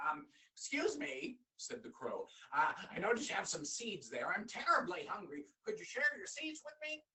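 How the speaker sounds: a hungry crow asking sweetly; polite crow. Acted.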